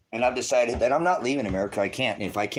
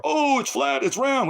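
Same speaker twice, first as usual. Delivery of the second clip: high squeaky mocking voice, much higher and louder; mock squeaky believers; 5 dB louder, slower than usual. Streamer mocking flat-earth arguers, high mocking squeak. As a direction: mimic silly arguers in a squeak.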